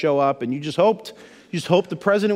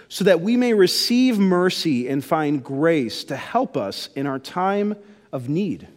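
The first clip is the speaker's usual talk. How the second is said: scripture reading. Acted. Reads scripture verse aloud.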